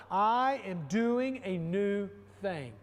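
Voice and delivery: slow, emphatic declaration; said loud. Shown as a demonstration. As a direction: proclaim it out loud to the congregation. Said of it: "Say it loud".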